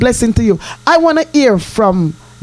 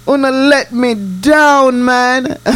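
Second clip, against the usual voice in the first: mock wail; 3 semitones higher, slower than usual. Mock hurt at listeners' replies.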